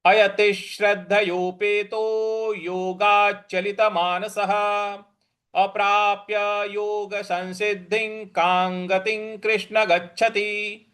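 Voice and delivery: steady measured recital of the full shloka; verse recitation. Shown as a demonstration. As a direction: recite the whole verse evenly. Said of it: "पूरा श्लोक क्या बन रहा है".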